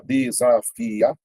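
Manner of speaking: "desafiador" slowly split into syllables. Shown as a demonstration. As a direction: sound out "desafiador" as de-sa-fi-a-dor, pausing between parts. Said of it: "a separação silábica".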